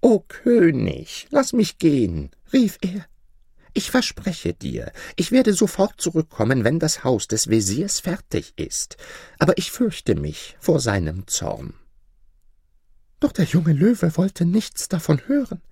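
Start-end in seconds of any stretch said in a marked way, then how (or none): 0.0-11.8 unhappy pleading. Acted. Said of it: "sehr unglücklich".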